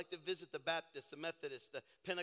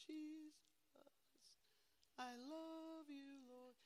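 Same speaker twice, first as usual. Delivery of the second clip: soft, high, slow whispered prayer; whispering worshiper; 8 semitones higher, 14 dB quieter, slower than usual. Retold or imitated. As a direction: breathe it to the Lord like a hushed worshiper. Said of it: "If you're a whispering person".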